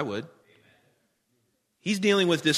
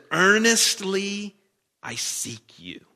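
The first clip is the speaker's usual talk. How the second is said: drawn-out plea; 4 semitones higher, much slower than usual. Acted. Reading the psalm's plea.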